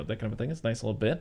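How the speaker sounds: ordinary talk, nothing marked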